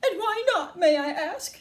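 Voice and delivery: high, loud indignant demand; high cross shout. A narrator's reading. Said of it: "shouted Missus Gloop".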